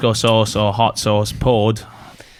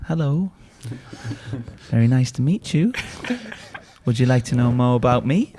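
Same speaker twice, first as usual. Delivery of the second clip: Russian woman voice; 4 dB quieter than usual. Retold or imitated. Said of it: "when he's doing that woman's accent".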